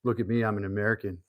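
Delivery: lightly put-on American accent; mock American accent. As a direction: play a cheesy American bragging. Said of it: "You like my American accent?".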